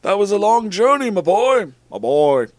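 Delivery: loud, high character voice; hearty Dumbledore. A narrator's reading. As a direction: project it grandly to the boy. Acted Dumbledore, loud and raised.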